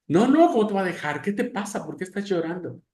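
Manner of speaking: madre imitada, aguda e insistente. Retold or imitated. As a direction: insiste como una mamá preocupada. (mamá que insiste, voz aguda)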